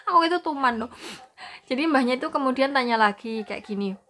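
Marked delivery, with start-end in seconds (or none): 0.1-0.9 real laughter breaking into higher, louder words; laughing. Real, not acted. Telling viewers about grandma's question, laughing. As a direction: say it through a burst of giggles.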